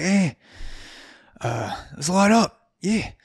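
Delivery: high-pitched party crowd; put-on high voice; mock eager patrons. Imitating patrons lighting up at once.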